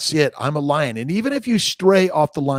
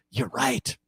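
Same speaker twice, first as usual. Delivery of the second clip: mocking; 13 semitones higher, 4 dB quieter than usual. Mocking reply to critics.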